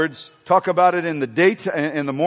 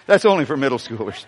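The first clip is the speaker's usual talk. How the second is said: laughing; 2 semitones higher, faster than usual. Real, not acted. Repeated laughing.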